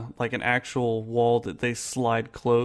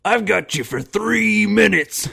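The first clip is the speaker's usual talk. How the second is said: laughing; 8 semitones higher, 6 dB louder, slower than usual. Retold or imitated. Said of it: "Kane comes in and is like".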